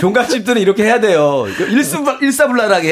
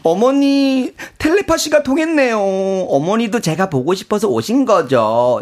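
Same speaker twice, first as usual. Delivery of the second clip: high, cutesy flattery building to a cry; hammed-up coy daughter-in-law; gushing aegyo; 4 semitones higher than usual. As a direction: sweet-talk mother-in-law, rising to an excited finish. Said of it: "애교쟁이".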